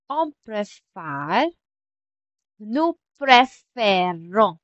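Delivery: slow, drawn-out "préfère" and "préférons", split word by word; careful pronunciation demo. Shown as a demonstration. Teacher showing how the accents change the sound, slow careful demo. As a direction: stretch "préfère" and "préférons" with pauses between the words. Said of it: "nag-iiba-iba yung sound niya".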